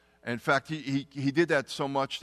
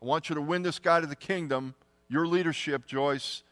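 urgent divine voice; 5 semitones higher, 5 dB louder than usual. Retold or imitated. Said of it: "I really felt like God said".

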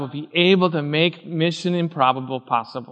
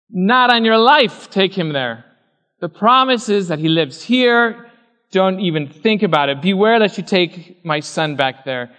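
adamant; 2 semitones higher, 3 dB louder than usual. Retold or imitated. Abraham forbidding his servant to take Isaac back, adamant. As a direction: refuse emphatically, stretching the opening words. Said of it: "he was adamant about it".

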